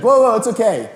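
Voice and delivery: sudden high, loud "whoa, whoa"; a crowd jumping then calming itself; mock startled city. Townsfolk reacting to a king on a donkey, mock alarm.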